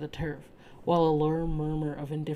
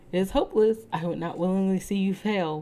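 soft warning; 3 semitones higher, 4 dB louder than usual. Acted. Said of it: "whispered the girl".

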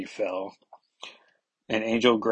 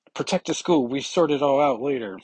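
higher, louder mock command; urgent order; 5 semitones higher, 4 dB louder than usual. Leader tells the team to protect the school, a mock command. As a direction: bark a quick order to the team.

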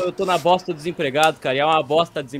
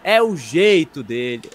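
higher, drawn-out dismissive reply; lightly mimicked old person; 4 semitones higher than usual. Old person excusing someone being badmouthed, lightly mimicked dismissal. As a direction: wave it off like an indulgent old-timer. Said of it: "uma coisa que o velho sempre fala".

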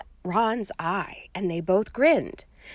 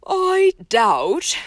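bright, a touch louder; cheerful raised voice; 6 semitones higher, 7 dB louder than usual. A narrator's reading. Headmaster ending the quarrel, cheerful and raised. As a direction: cut in cheerily. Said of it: "in a cheerful but slightly raised voice".

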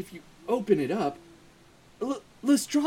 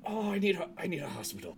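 wounded and fading; 2 semitones lower, 10 dB quieter, much faster than usual. Acted. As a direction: fade away as if badly shot. Shot character asks for hospital.

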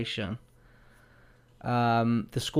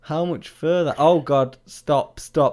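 prank reveal laughing; 5 semitones higher, 7 dB louder than usual. Real, not acted. Reacting to prank escalation.

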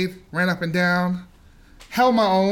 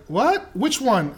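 surprised what; 5 semitones higher, much slower than usual. Retold or imitated. Friend surprised at coach.

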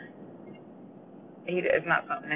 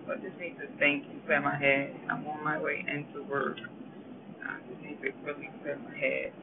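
words pulled long by a yawn; 3 dB quieter than usual. Real, not acted. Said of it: "I'm sorry I keep yawning".

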